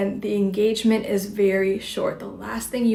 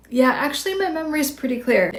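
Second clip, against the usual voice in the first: calm statement; 6 semitones higher, faster than usual. Shown as a demonstration. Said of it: "And so you can just say".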